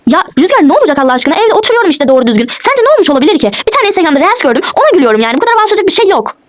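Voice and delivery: indignant, pitch leaping on key words; exasperated. Acted. Wife explaining her laugh to suspicious husband, exasperated. Staged quarrel, defending herself.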